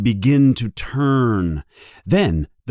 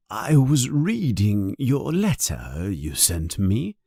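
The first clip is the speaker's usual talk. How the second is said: a hint of a weak old man, quiet; lightly voiced tired old wizard; frail old headmaster; 4 semitones lower, 4 dB quieter than usual.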